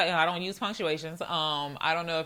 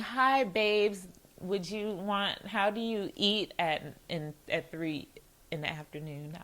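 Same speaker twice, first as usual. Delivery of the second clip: slow, softening mock-sweet question; sweetened polite asking; 5 dB quieter, slower than usual. Shown as a demonstration. Demonstrating a gentler text to her date, slow and mock-sweet. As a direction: pick through it slowly and politely, trailing softer. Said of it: "when you read it a certain way ... instead of saying".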